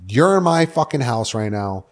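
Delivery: mildly heated, insistent demand; retold angry demand. Caller demanding Mia book a flight, mock angry. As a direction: act out bossing someone on the phone.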